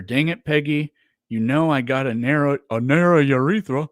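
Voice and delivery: Hank Hill impression. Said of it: "Favorite Hank line ever".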